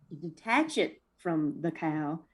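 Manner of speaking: lazy Southern country drawl. Pretend. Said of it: "I'd like for you to say it in a country drawl".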